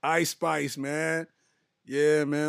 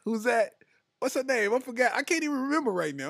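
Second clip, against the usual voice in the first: frustrated recall; 8 semitones higher than usual. Real, not acted. Straining to recall a name.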